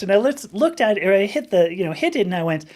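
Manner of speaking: ordinary talk, nothing marked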